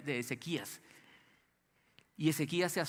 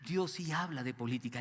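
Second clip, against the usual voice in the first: usual speaking voice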